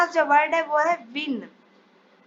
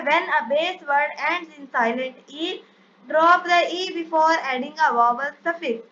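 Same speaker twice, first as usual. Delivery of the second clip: reads the English rule out very slowly, word by word; measured classroom dictation; much slower than usual. Shown as a demonstration. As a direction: spell out the rule slowly for students to copy.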